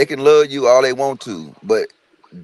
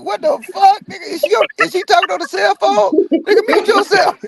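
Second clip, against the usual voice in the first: incredulous outburst. Retold or imitated. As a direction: blurt it out in shock. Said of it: "I'm like".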